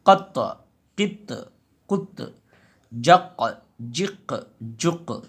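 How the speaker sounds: final consonant bounced with a small echo; qalqala echo. Shown as a demonstration. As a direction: let the last letter knock and rebound. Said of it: "टक्कर भी लगाया".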